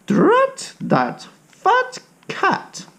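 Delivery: put-on high, slow old lady grumble; grumbling old lady. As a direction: drag it out like a cross old lady.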